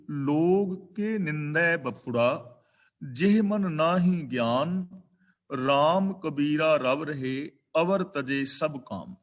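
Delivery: slow, measured verse reading; scripture recitation. Shown as a demonstration. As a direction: draw out each word of the shabad reverently. (ਹੌਲੀ, ਠਹਿਰ ਕੇ ਬਾਣੀ ਪੜ੍ਹਨਾ)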